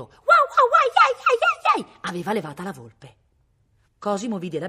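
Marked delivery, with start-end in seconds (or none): 0.0-2.0 explosive, very high dog yapping; barking dachshund on a scent; bursting barks. A narrator's reading. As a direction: break into frantic loud barks and yelps. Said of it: "poi a scoppio".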